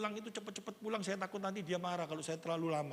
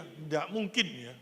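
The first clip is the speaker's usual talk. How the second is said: slow, lower, deliberate restatement; slow low repeat; 4 semitones lower, slower than usual. Shown as a demonstration. (diulang pelan dan rendah)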